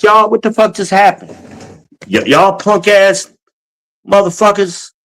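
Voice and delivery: mock-yell at the two installers who bailed; exasperated yell.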